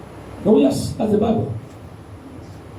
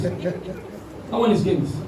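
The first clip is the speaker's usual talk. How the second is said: slow, drawn-out; 5 semitones lower, 8 dB quieter, much slower than usual. Shown as a demonstration. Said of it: "I said that's games".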